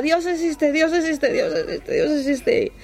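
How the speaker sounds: high, repetitive imitation of someone shaken; retold trembling awe. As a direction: repeat it like someone in shock, trailing into breath.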